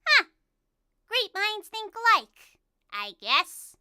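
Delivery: high, slow character voice; drawn-out voice for Celine. Acted. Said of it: "I think Celine would say".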